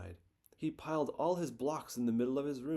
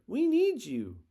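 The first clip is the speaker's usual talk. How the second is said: louder, higher call to a friend; 9 semitones higher, 7 dB louder, slower than usual. A narrator's reading. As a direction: shout to hurry him along. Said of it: "shouted Bear".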